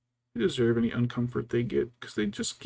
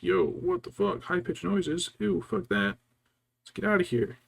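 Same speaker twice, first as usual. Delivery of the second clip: lightly voiced appalled cats, higher and louder; mock-disgusted cat, pitched up; cats voiced in alarm; 6 semitones higher, 5 dB louder than usual. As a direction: play cats recoiling from a horrible noise. Voices the cats recoiling from her.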